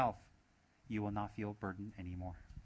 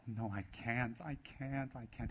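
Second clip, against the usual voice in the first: hammed-up frightened refusal; mock scared; slower than usual. Teacher mimics people refusing others' problems, mock fearful pleading. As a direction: imitate someone backing away in fear. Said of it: "They're scared".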